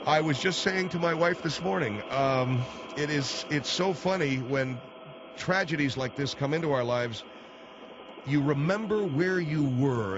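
high, overwrought anchor voice; high hammy anchor. Acted. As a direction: pitch it way up, mock anguish.

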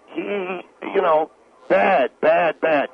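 mock dumbed-down rant. Shown as a demonstration. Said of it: "This is Obama".

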